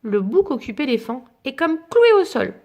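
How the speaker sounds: gentle bedtime storybook reading; story narration. A narrator's reading. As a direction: read it like a picture book to a child. Reads picture book aloud.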